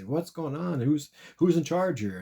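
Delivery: high, loud and slow, demanding answers; a pilot yelling over the chaos, drawn out; alarmed pilot. Acted. Pilots question the hijackers.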